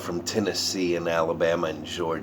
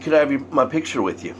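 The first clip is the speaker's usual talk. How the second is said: eager fan request; 6 semitones higher, faster than usual. Retold or imitated. Excited fan asks idol.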